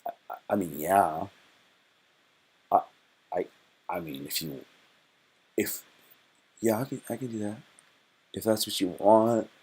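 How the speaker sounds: halting, stammering, falling to a near whisper; flustered guy. Retold or imitated. Streamer acting the stunned guy answering the girl, stammering. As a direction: trip over every word like he can't believe it. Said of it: "And you go".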